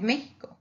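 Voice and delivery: "Mexico" said as ME-hee-ko. Shown as a demonstration. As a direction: say "Mexico" with an h-like Spanish j for the x. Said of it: "Like Mexico is like a J".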